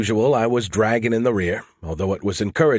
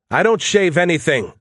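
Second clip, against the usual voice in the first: higher, louder flustered denial; acted indignant outburst; indignant protest; 8 semitones higher, 5 dB louder than usual. A narrator's reading. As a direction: protest loudly, embarrassed. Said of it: "I protested".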